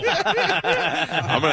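talking through laughter; amused, laughter running under the words; laughing. Real, not acted. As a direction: say it while still cracking up. Host cracking up at guest's threat.

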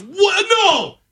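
very high-pitched mock disbelief; retold shocked reaction. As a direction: squeal it like a stunned onlooker. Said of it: "And the guy goes".

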